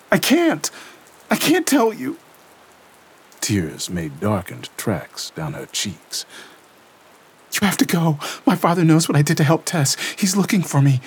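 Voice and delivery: put-on high, tense young woman's voice reliving horror; Lena shaken. A narrator's reading. Lena telling Gabriel what she felt, shaken and tense. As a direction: voice Lena trembling through the vision. Lena tearful, afraid of father.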